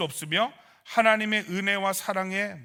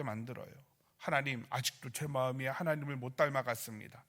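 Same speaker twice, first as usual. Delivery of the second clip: acted prayer. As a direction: open with a firm call, end in hushed confession. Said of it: "이렇게 기도가 가야 되는 거예요".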